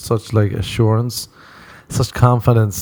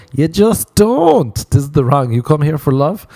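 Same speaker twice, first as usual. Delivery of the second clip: high mock lament; 6 semitones higher than usual. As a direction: cry it out high like a lovesick crooner. Mock preaching about love.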